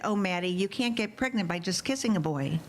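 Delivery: gentle, loving mother's tone; kind motherly. Retold or imitated. Mother gently correcting her daughter, kind and loving. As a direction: let her down gently and kindly. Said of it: "in my kindest, most loving, motherly way possible".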